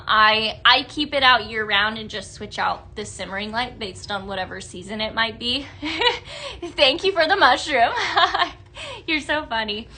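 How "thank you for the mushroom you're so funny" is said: real giggle through the words; tickled, chuckling as you talk; amused laughing. Real, not acted. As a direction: laugh while thanking someone for a joke. Amused by a viewer's joke.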